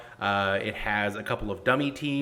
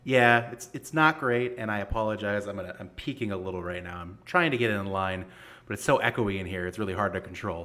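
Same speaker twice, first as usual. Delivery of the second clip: echoey room. Real, not acted. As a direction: voice echoing in a bare room. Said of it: "the kinda echoey sound".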